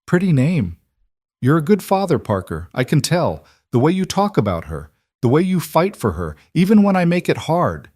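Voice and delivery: put-on slurred, drowsy drunk speech; drunken slurring. A narrator's reading. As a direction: slur the words, half asleep and tipsy. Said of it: "Her words were slurring again".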